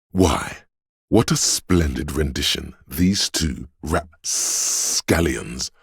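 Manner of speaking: grand, florid praise, lingering on the showy words; stagey, measured pomp; theatrical critic. Acted. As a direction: savour it like a hammy stage announcer. Florid mock review of a performance.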